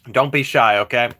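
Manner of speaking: talking through a mouthful of noodles; choking on noodles. Real, not acted. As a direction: mouth full, half choking on food. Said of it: "Sorry, I'm choking on noodles here".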